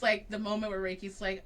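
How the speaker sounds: normal talking voice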